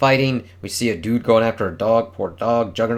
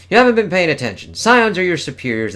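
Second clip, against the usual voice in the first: villain voice; 8 semitones higher, 6 dB louder than usual. Acted. Reading villain lines from comic.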